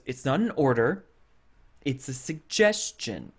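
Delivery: understated, uneasy queen retold; uncomfortable. Queen answering Margaret's question, mildly uncomfortable. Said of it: "like, uncomfortable where she goes".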